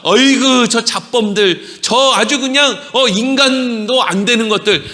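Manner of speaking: acted scornful onlooker; mock contempt. Onlookers lumping together the crucified criminals, acted scorn. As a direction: sneer at them in disgusted exasperation.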